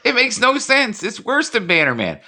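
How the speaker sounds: imitating a baffled guest. Voicing what the guest thinks of him, mock baffled. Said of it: "you know what he's saying right now".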